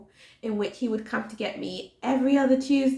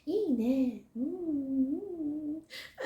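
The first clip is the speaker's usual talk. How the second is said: contented client; 6 semitones higher, 5 dB quieter, much slower than usual. Retold or imitated. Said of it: "And she's like".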